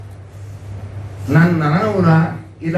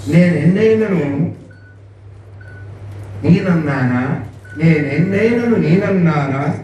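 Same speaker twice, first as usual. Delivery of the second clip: slow, rhythmic verse recital; poem recitation; slower than usual. Acted. Teacher reciting the verse to pupils, slow and rhythmic. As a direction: recite each line deliberately.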